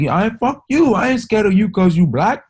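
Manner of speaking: high, loud put-on voice firing back; mock store clerk. Store clerk hitting back at customer, high loud mock voice. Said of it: "And he was like".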